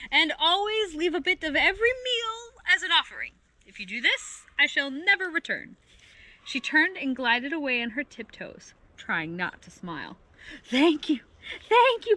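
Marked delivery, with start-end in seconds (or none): 0.1-5.8 raised, commanding storybook voice; calling out with authority. A narrator's reading. Penduli giving orders to the creatures, commanding. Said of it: "called out with authority". 10.6-12.2 high, loud grateful cries; calling out. A narrator's reading. The creatures thanking their visitor, calling out high. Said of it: "called the creatures".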